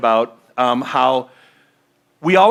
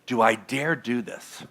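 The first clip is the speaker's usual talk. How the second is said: doubtful self-question; 4 semitones lower, 9 dB quieter than usual. Retold or imitated. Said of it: "you're asking yourself".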